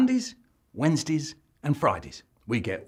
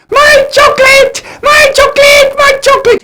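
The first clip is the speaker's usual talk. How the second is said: shrieking, very high and loud wail; wailing cry; 18 dB louder than usual. Acted. A character wailing over his lost chocolate. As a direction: scream it out like the world has ended.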